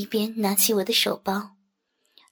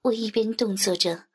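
plain reading voice

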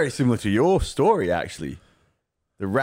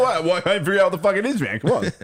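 high, fast frustrated whine; frustrated character voice; 8 semitones higher than usual. Acted. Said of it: "Be like".

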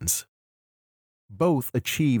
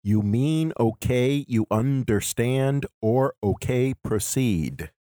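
measured beats through "okay, you understand"; iambic stresses; slower than usual. Shown as a demonstration. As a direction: lean on every second syllable of "understand" and "proceed". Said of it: "Gilroy trots out the use of iambic".

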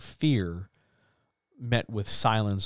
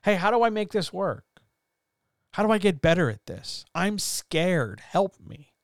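higher-pitched timid plea for help; timid asking for help; 6 semitones higher than usual. Retold or imitated. Imitating a scared writer asking chat for help, higher and timid. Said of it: "You could always say".

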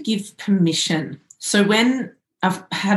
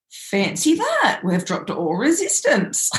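mock surprise. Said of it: "I went".

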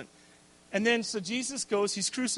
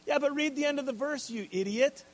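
higher, frustrated jab at the reader; exasperated; 6 semitones higher than usual. Real, not acted. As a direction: snap at them in real annoyance. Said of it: "that was a little bit my unrenewed mind".

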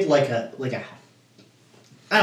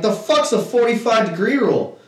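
higher-pitched, baffled challenge; retold disbelief; 8 semitones higher than usual. Pool player questions an unknown rule, baffled. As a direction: challenge it in one quick breath.

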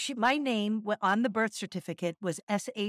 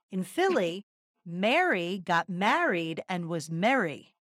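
Philly dialect; 2 semitones lower, slower than usual. Retold or imitated. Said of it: "I can actually do the dialect".

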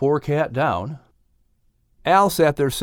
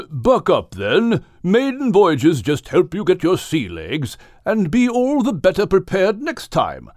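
reassuring; 4 semitones higher than usual. A narrator's reading. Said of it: "trying to affirm the pitiful Al".

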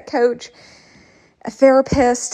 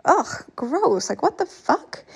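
disgusted groan rising to a high outburst; annoyed ugh; 6 semitones higher, slower than usual. Real, not acted. Disgust at own comparing.

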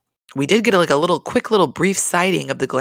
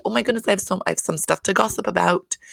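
mock-giddy gossip, pitched higher; 5 semitones higher, faster than usual. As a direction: imitate someone thrilled to have gossip. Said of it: "he's almost, like, giddy".

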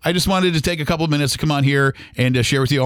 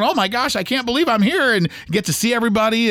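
imagined delight; 7 semitones higher than usual. Pretend. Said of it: "He's, he's probably going".

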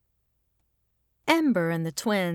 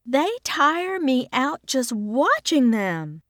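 amused, a little higher and slower; fond mother watching her kids; smiling; 6 semitones higher, slower than usual. A narrator's reading. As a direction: say it through a wide smile. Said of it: "she says with a wide smile".

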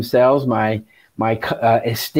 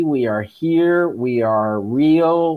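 slow, even robot voice; toy robot voice; slower than usual. Pretend.

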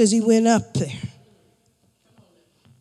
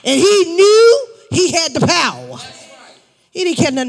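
preaching shout; 3 semitones higher than usual. Real, not acted.

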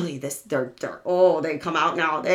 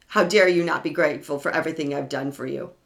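mock indignant abuser; 5 semitones lower, 3 dB quieter, faster than usual. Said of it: "They have you feeling".

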